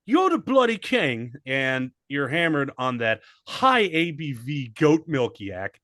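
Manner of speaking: put-on light English accent on "bloody king"; lightly put-on English accent; mock English accent. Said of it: "in that accent now".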